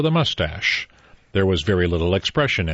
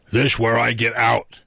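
put-on drunk old man; 2 semitones higher than usual. A narrator's reading. Drunk old man leaving train.

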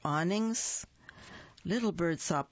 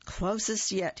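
cheeped; 3 semitones higher than usual. Acted. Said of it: "he cheeped".

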